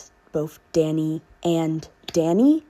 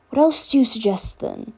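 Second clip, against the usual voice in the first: snarky; 4 semitones higher than usual. Acted. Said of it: "the girl snarked".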